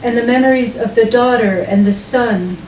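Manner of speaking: measured poem recital with deliberate pauses; unhurried literary reading, evenly paced; poetry reading. Acted. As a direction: read it as a poem, phrase by phrase, letting each image land. Reads own poem aloud.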